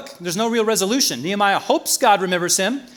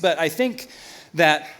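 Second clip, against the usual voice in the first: normal talking voice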